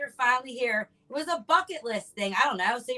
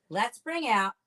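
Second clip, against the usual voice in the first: announcer intro; 3 semitones higher, much slower than usual. Real, not acted. Host introducing the guest.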